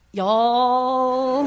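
Southern drawl. Retold or imitated. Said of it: "That's perfect".

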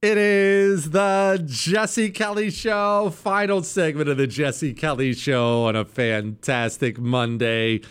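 drawn-out, high opening easing down; big radio host re-entry; radio show intro. Acted. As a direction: announce the show, stretching the first words.

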